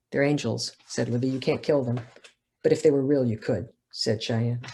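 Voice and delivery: measured reading voice for a novel; steady literary reading; story narration. A narrator's reading. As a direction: read it as the author to an audience. Author reads her novel aloud.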